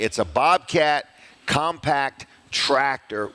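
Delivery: "Bobcat compact tractor" slowed, each word set apart; weighty, spaced stress on "Bobcat compact tractor"; deliberate emphasis. Real, not acted. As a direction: spell out "Bobcat compact tractor" slowly to clear up confusion. Clarifying last week's misunderstanding.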